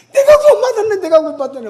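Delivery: high, loud, laughing cry of joy; elated, laughing as he realizes; joyful exclaim. Retold or imitated. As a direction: burst out with joy at being saved. Man rejoicing at his salvation.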